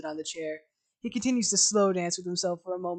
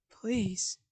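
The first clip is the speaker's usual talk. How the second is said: soft plea; 6 dB quieter than usual. Acted. Arthur quiet plea.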